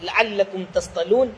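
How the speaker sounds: slow, measured tajweed chant; drawn-out Quranic recitation. Acted. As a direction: recite the verse slowly and melodically. Quran verse recited in lesson.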